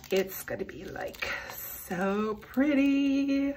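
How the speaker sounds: breathy hushed whisper, slow; awed whisper to herself. Real, not acted. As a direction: breathe it out in awe. Whispering while peeling the cover.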